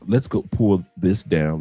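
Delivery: ordinary delivery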